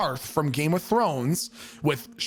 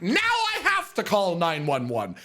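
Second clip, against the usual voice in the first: 1 panicked; 4 semitones higher than usual. Retold or imitated. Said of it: "And I was like".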